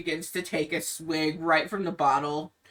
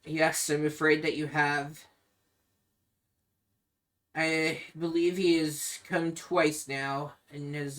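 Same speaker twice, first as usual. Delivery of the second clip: Ismark, downcast. Acted. Ismark sadly confirms to Irina she was bitten. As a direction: hang your head and admit it. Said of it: "hangs his head low".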